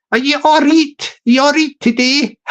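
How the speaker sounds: jokey Yorkshire greeting with "reet" for right; playful mock Yorkshire hello; Yorkshire accent. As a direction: put on a light Yorkshire accent. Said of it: "that's how they talk in Yorkshire".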